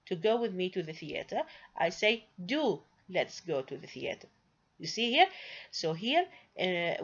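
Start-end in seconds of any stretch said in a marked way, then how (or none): 2.4-4.3 "Do" set apart and stressed; persuade, leaning on the opening "Do"; persuasive. Shown as a demonstration. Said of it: "if I want to persuade you".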